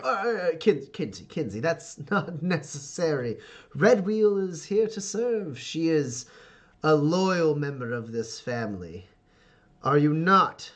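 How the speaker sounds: lightly voiced patriarch, stammer turning stately; Ferdinand, imperious father. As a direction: correct them, then press for loyalty.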